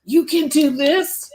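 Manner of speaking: high, gentle encouragement; lightly voiced shoulder angel. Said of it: "the one that says".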